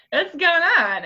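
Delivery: high, puzzled pet voice; dog voice. Retold or imitated. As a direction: voice the confused dog. Voicing the dog Steve.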